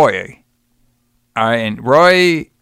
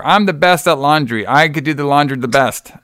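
Trump impression. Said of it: "he sounded like Trump here".

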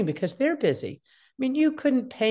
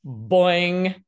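cartoon boing; 5 dB louder than usual. Shown as a demonstration. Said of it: "Ears are totally open".

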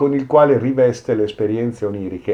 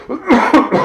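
harsh real cough; a sudden rough cough; coughing fit; 5 dB louder than usual. Real, not acted. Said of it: "mi prende proprio male questa tosse".

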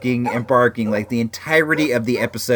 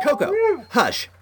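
higher-pitched firm command, falling; firm dog-owner voice; 12 semitones higher than usual. Retold or imitated. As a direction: order a dog to hush without yelling. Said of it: "in that firm dog owner voice".

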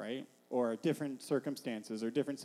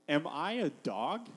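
slow, affronted question; sneering contempt; slower than usual. Acted. Goliath sizing up the boy David, sneering contempt. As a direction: play it as mild, drawn-out disdain. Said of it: "sneering in contempt".

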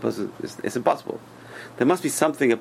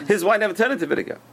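much higher, with amazement on wine; marvelling emphasis; 12 semitones higher, faster than usual. Shown as a demonstration. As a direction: exclaim it as a wonder, stress on wine. Repeats the line for emphasis.

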